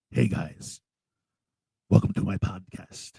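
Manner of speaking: lightly voiced grim old shark hunter monologue; Robert Shaw. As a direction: tell it like an ominous sea tale, in short measured phrases. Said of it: "my best Robert Shaw impression".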